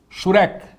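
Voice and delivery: shurek, said slowly and clearly as shu-REK; teacher modelling a Hebrew vowel name; Hebrew word model. Shown as a demonstration. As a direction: sound out shurek for students to repeat. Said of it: "Diga comigo".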